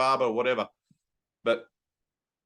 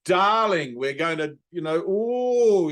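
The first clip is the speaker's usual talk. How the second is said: camp, higher, gushing hairdresser voice, a slow drawn-out ooh; flamboyant Stefan; 3 semitones higher, 4 dB louder, slower than usual. Retold or imitated. Teacher imitating a camp TV hairdresser, flamboyant and gushing. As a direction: ham up a fussy, theatrical stylist. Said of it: "Stefan was this flamboyant kind of".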